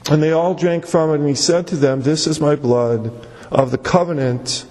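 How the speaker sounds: low-pitched, measured Bible reading; solemn low reading from scripture. Acted. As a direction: read the verse aloud, voice dropped low. Reads the Bible verses.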